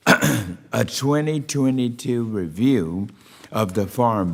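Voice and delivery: measured, formal hearing-room delivery; formal opening statement. Real, not acted. Chair opening a hearing on rural broadband, formal speech. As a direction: read it as prepared remarks for the record.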